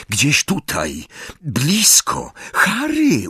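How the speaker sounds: put-on high, urgent girl's voice calling out. A narrator's reading. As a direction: call to him from nearby. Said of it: "usłyszał głos Hermiony".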